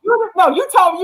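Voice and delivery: ordinary talk, nothing marked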